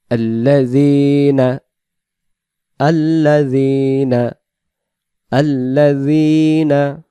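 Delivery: আল্লাযীনা with a soft z, not a j; soft z sound. Shown as a demonstration. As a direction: keep the যী soft. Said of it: "উচ্চারণটা এই জায়গায় হবে".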